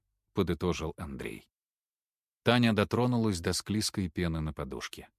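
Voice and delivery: ordinary delivery, nothing marked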